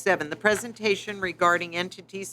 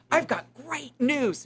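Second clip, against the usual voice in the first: high, drawn-out good news; gleeful retold announcement, pitched up; big-smile announcement; 6 semitones higher, slower than usual. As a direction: imitate a beaming man announcing good news, stretched out. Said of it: "looks at me with a big smile".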